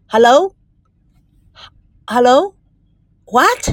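drawn-out hellos, rising at the end; puzzled phone greeting. Acted. Girl answers the ringing phone, puzzled then surprised. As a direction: call into the phone slowly, then startled.

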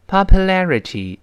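popularity said slowly again, la stressed; slow careful reading. Shown as a demonstration. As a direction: repeat popularity slowly, syllable by syllable. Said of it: "先慢慢读起来". (慢慢再读一遍popularity)

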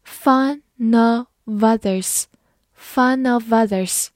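"Fun of others" slowly blended into one linked chain; linking demo. Shown as a demonstration. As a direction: show how "fun of others" runs together. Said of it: "读快的时候，后三个单词可能出现连读".

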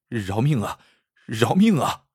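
a mild, understated plea for his life; begging for mercy. Acted. Lu Dui begs the bandit for his life, lightly frightened. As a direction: beg the bandit to spare you. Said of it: "鲁队急忙求饶".

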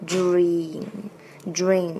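"dream" with a firmly voiced "dr"; voiced consonant demo. Shown as a demonstration. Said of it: "浊辅音一定要出来". (“dream”浊辅音发足)

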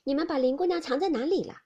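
put-on a young lady teasing the maids, smiling; Baochai asking with a smile. A narrator's reading. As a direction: playfully pretend to hunt for her. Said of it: "宝钗反向他二人笑道".

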